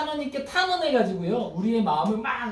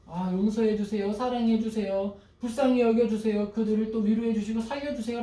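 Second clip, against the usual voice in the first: humble prayer. Retold or imitated. Believer praying for enemies, tender and earnest. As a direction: pray for enemies gently. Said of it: "라고 기도합니다".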